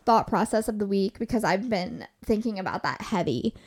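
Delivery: breathless, gasping between words; running short on air while talking; out of breath. Real, not acted. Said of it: "I'm getting out of breath here".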